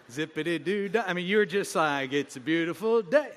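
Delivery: bouncy, sing-song cheerful greeting; mock chipper morning person. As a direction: play the sunny morning person. Mocking chipper morning people.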